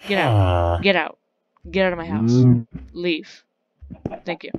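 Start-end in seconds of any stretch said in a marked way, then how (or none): 0.1-2.0 louder scolding stop it; mock angry shout. Scolding the villagers wrecking his house, loud. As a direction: yell at them to knock it off.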